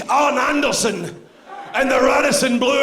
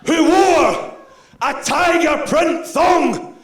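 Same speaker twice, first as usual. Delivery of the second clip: promo shout; 4 semitones higher than usual. Acted. Wrestler's promo building up.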